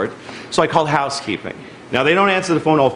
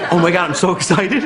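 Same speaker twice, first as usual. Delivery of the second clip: mock delight. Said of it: "'Cause I get to be really mad".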